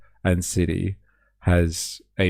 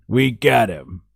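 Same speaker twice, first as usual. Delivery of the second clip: triumphant; 3 semitones higher, 3 dB louder, slower than usual. Shown as a demonstration. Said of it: "We got to the bottom of that one".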